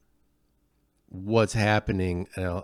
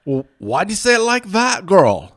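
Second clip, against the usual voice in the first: loud, much higher stage Scots-Irish brogue; cartoon Scottish-Irish accent, pitched up and loud; hammed-up Scottish-Irish accent; 11 semitones higher, 10 dB louder than usual. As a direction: play a gruff Scotch-Irish lout, loud and high. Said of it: "I always wanna be good at accents".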